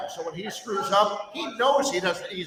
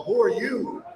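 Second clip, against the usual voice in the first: higher, mocking challenge; indignant retort; 5 semitones higher than usual. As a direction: throw the question back at him with scorn. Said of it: "I go".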